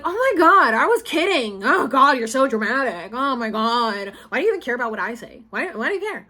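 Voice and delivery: mock mother waving it away; mocking mom. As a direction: brush it off like mom does. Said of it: "she would just be like".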